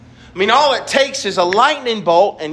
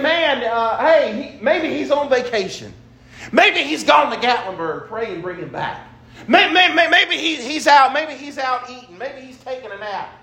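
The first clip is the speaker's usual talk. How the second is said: higher, teasing mockery of the prophets; mocking taunts; 5 semitones higher than usual. Elijah taunting Baal's prophets, mocking and higher. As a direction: taunt them like Elijah poking fun. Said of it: "He started making fun of them".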